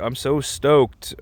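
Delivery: a hint of skater drawl; a singer's skater lingo. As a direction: lightly imitate skater-kid enthusiasm, stretched slow. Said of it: "almost skater boy lingo".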